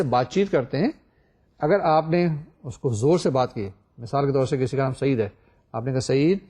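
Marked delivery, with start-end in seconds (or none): 6.0-6.4 calling a name kindly and evenly; polite call. Shown as a demonstration. Teacher demonstrating a polite way to call Saeed. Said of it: "یہ ایک اچھا کہنے کا طریقہ ہے".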